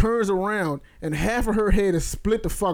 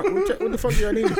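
retold disbelief; 13 semitones higher than usual. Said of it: "I'm like".

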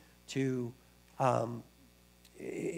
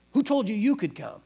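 higher, puzzled gatekeeper's question; incredulous mock challenge; 6 semitones higher, 4 dB louder than usual. Guys at pearly gates to thief, incredulous challenge. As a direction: pitch it up as a mock interrogation.

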